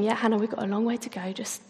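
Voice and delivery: soothing, settling her chatty daughter; imitating mum. Mum telling her chattering daughter to save energy, calm.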